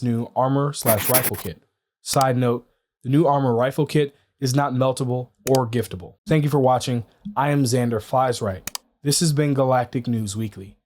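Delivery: steady newscaster delivery; news read. Acted. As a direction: read it like a weekly news host. Reads weekly news segment.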